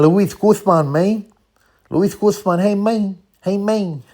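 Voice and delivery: put-on high, loud Latino accent; hey man in Guzman's Latino accent. Listing the cast, then loud high Latino accent. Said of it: "speaks in that heavy Latino accent".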